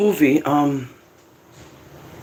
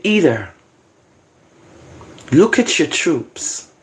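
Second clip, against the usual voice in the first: slow, phrase-by-phrase Bible reading; measured, solemn recitation; scripture reading; slower than usual. Acted. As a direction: read it out deliberately, pausing between words. Reads scripture aloud.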